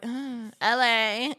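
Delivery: slow, reluctant brush-off; bitchy, disinterested. Retold or imitated. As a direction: drag it out as if barely bothered. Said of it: "I'm being a bitch".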